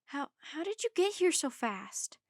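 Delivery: high, disbelieving question; stunned. A narrator's reading. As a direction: stammer it out in astonishment. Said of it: "Jack was stunned".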